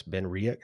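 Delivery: Riach as 'REE-ick'; local pronunciation. Shown as a demonstration. Explaining how they say it there, Riach as 'ree-ick'. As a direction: say Riach with a short 'ick' ending. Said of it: "that's how they say it over there".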